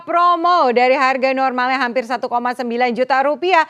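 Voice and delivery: infomercial. Acted. Announcing promo price on air.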